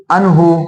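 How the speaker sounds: अनहु with हु held long; stretched ending. Shown as a demonstration. Teacher gives another example, अनहु with long हु. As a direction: draw out the last vowel of अनहु. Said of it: "इसी तरीके से आता है".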